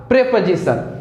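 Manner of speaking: "प्रीपोजिशन" as "prepozishan", short e; correct pronunciation. Shown as a demonstration. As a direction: model the right "प्रीपोजिशन" for the class. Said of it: "तो फिर से बोलिएगा".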